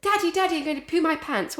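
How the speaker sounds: put-on squeaky small boy begging dad on the plane; child's whine. Father recalls son on the plane, high whiny kid voice. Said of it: "he goes to you".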